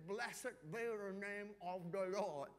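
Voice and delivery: slow, mumbled as if through a swollen mouth; struggling to talk. Retold or imitated. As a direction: force the words out past the sores. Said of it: "very hard to talk".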